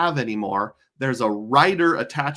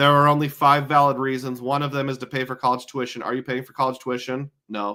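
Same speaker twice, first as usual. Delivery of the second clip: ordinary talk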